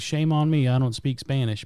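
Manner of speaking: plain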